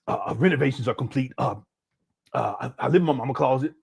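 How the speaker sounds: a light, lazy put-on voice of Umar, with halting uh's; mock him as a rambling, fumbling fake caller; mocking Umar impression. Streamer mocks Umar's phone-call claim, lightly voiced impression of Umar. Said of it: "What am I gonna do?".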